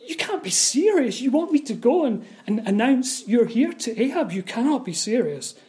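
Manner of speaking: mild acted disbelief at Elijah's request; lightly voiced incredulous Obadiah. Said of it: "He's saying to Elijah".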